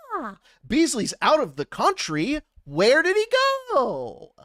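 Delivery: incredulous echo with a questioning rise; mock disbelief. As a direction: repeat it as if astounded. Mock disbelief echoing P's excuse.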